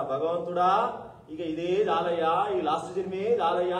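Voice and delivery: put-on a child in the womb begging for release; pleading prayer. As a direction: beg God slowly, from the heart. Unborn child prays to God.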